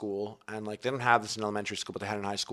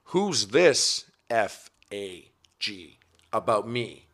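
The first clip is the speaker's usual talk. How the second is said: loud, very slow, drawn-out, carrying; 4 dB louder than usual. Retelling what a student said while pointing: imitating a kid saying it loudly. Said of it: "he says really loud".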